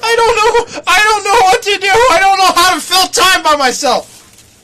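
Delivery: hammed-up fake sobbing; mock crying. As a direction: wail like an abandoned child. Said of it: "Oh, don't cry, baby".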